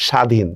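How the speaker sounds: স্বাধীন as "shadhin", no b or w; silent b. Shown as a demonstration. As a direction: drop the b after the sh in স্বাধীন. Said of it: "বফলার উচ্চারণ হচ্ছে না".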